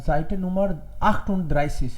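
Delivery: very slow page number; slow dictation. Shown as a demonstration. Teacher giving homework page slowly. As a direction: dictate it slowly so all can note. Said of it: "page number thirty eight पे".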